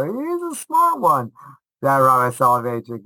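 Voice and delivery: a wry wink among friends; mock wry praise.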